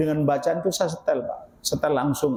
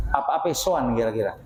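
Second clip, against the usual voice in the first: quick question; 5 semitones lower, faster than usual. Shown as a demonstration.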